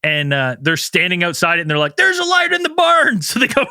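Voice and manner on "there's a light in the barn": high, hammed-up cry of discovery; excited alarm. Retelling men outside the barn, excited mock alarm. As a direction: call it out like a startled lookout. Acting out the men spotting light.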